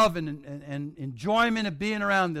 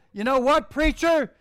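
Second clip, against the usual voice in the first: eager call; 7 semitones higher, 5 dB louder than usual. Retold or imitated. Jim calls out to the preacher.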